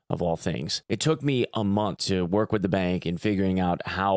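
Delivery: smooth, measured sponsor pitch; sponsor ad read. Real, not acted. Reads the sponsor segment.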